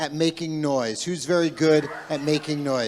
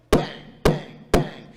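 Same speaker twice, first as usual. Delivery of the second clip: hammer bangs; slower than usual. Shown as a demonstration. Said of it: "pounding and pounding the metal".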